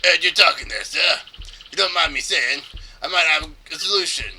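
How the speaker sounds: put-on light pirate accent; hint of pirate accent. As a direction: speak up like a sailor with a pirate accent. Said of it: "that's not a bad, uh, pirate accent".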